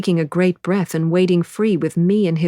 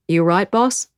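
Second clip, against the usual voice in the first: put-on light Australian accent, called out louder; Australian shout; 3 semitones higher, 4 dB louder than usual. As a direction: call across in a mild Australian accent. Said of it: "someone shouts in an Australian accent".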